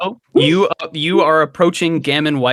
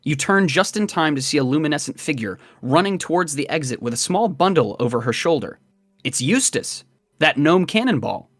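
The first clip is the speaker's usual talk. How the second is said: measured game master narration; scene-setting narration. A narrator's reading. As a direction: read it as a story told to the player.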